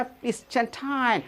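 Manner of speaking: lightly mimicked English-American accent, final t dropped; imitated English-American speaker. Teacher showing how the visitor said it, imitated English-American accent. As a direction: echo the foreigner's phrasing. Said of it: "इस तरह के कहा".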